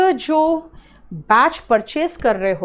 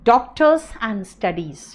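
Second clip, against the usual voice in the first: doctors and studies drawn out very slowly; slow announced topic; 2 semitones lower, much slower than usual. Shown as a demonstration. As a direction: announce the topic title word by word. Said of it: "और वो है".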